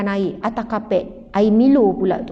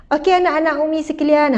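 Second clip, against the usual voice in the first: a hint of a gentle, sugary lecturer voice; sweet preacher tone; 2 semitones higher than usual. Mother suddenly sounding like a preacher to her kids, gently sweet. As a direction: lightly switch into sweet sermon mode. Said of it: "ha, ubahlah intonasi".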